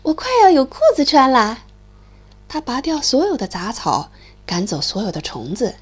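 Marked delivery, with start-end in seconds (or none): 0.0-1.6 glad. Acted. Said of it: "小鼹鼠高兴地说".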